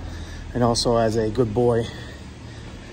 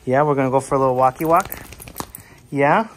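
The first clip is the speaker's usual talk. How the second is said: quick, louder, bright pet voice; excited dog talk; 2 semitones higher, 4 dB louder, faster than usual. Real, not acted. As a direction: hype the dog up for a walk. Asking the dog for walk.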